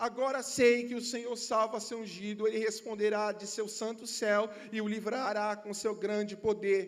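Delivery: loud, slow psalm read with weight; scripture reading. Acted. Pastor reading the psalm his wife gave him, declaiming loudly. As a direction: proclaim the verse to the church.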